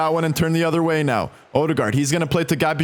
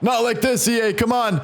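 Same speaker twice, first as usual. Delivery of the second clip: frustrated; 5 semitones higher than usual. Real, not acted. Frustrated at own mistake.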